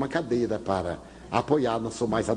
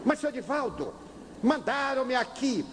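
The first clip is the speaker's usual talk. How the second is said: pleading father; 10 semitones higher than usual. Retold or imitated. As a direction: whine that he was sent here. Father pleads, was sent here.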